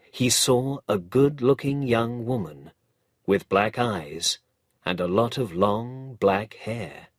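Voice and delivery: ordinary delivery, nothing marked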